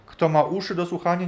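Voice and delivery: loud proclaiming call. Retold or imitated. Preacher echoing Jesus' cry, loud call. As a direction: ring it out to the crowd.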